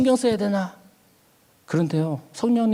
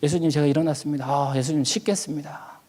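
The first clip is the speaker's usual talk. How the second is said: low, soft, unhurried address to Jesus; tender waking prayer; 4 semitones lower, 5 dB quieter than usual. Retold or imitated. Preacher telling Jesus about getting up to wash, tender prayer. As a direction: report gently to someone dearly loved. Acted morning chat with Jesus.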